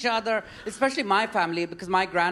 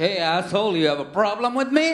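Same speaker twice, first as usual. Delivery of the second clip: brash New Yorker; faster than usual. Retold or imitated. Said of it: "This is how Indians there say".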